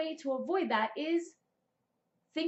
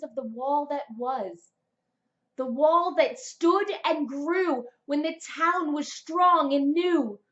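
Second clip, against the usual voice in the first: dramatic reading; 4 dB louder than usual. Acted. Reading her paragraph aloud to viewers, dramatic swell. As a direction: read it like an epic, swelling. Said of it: "this is what flew out of my pencil".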